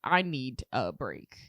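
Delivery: low, slow, worn out plea; weary sigh. Retold or imitated. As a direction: drag it out like you're exhausted. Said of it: "and you're just like".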